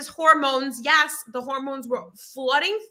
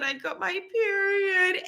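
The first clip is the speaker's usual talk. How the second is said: retold upset; 7 semitones higher, slower than usual. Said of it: "I started crying".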